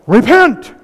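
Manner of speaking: high, loud hammed-up yell of repent; mock shout. Preacher mocking a Bible-thumper yelling at people, hammed-up. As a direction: bark it like a street zealot. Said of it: "whacking people over the head saying".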